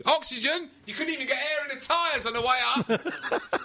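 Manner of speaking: high, laughing incredulous cry; laughing disbelief. Real, not acted.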